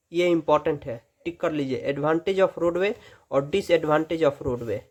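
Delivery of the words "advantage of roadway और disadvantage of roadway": advantage of roadway drawn out word by word; very slow heading read; slow dictation. Shown as a demonstration.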